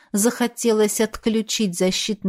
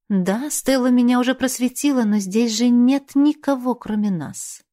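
carefree smirk; 5 semitones higher than usual. Acted. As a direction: brush it off with a playful smirk. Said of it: "Легкомысленно усмехнувшись".

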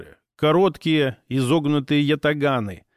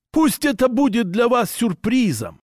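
proud orc voice; 6 semitones higher than usual. Acted. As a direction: announce yourself like a proud tribal hunter. Orc orders his men.

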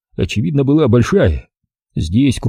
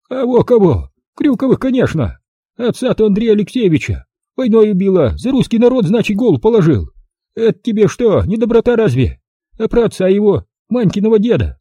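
put-on higher, brisk old-woman voice; old village granny; 10 semitones higher than usual. Old granny greeting the city visitor, high old-woman voice. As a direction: voice the feisty village grandmother. Granny tells about Kryukovs.

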